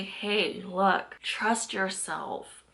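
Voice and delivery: trust yourself, said slowly and softly; slow, soft encouragement. Shown as a demonstration. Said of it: "And I'm here to say".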